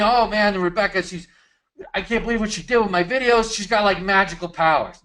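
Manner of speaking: imagined gushing client. Retold or imitated. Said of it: "imagine someone saying".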